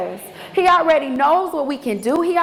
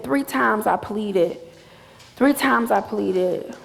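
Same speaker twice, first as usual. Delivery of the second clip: Three said slowly with weight on Three; slow stress on three; slower than usual. Shown as a demonstration. Preacher stressing scripture to congregation, slow emphatic reading. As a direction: lean hard on the word Three, slow and pleading. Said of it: "He didn't say".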